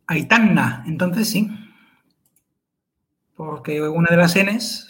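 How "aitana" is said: Aitana with a held, doubled n; double N. Shown as a demonstration. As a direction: lengthen the n of Aitana as if it were written nn. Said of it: "Si tuviera dos Ns". (Aitana con la ene alargada, como doble ene)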